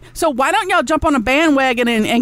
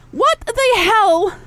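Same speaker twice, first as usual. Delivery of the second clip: slow incredulous; 7 semitones higher, much slower than usual. Real, not acted. Exasperated at viewers.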